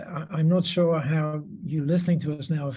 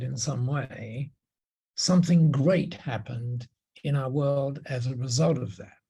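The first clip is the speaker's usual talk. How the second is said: retold calmness. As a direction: imitate her calm, pausing between phrases. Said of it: "beautiful kind of calmness".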